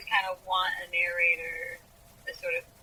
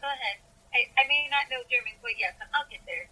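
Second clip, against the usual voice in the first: lightly voiced eager listener, higher pitch; Joe; 5 semitones higher than usual. Joe urging Friedrich to keep reading, lightly eager. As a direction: gently urge someone on, pitched up. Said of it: "Joe would just be like".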